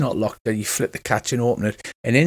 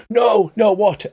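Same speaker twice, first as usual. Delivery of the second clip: high, louder cry of alarm; mock scream; 8 semitones higher, 4 dB louder, slower than usual. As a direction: cry out in acted panic. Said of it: "He starts to scream".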